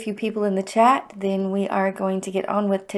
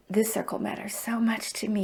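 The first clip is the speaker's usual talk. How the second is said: whisper; 7 dB quieter than usual. Real, not acted. Emotional confession to her circle.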